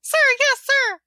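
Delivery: high, loud chanted reply; loud gung-ho soldier. Acted. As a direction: shout it back like recruits. Troops answer drill sergeant.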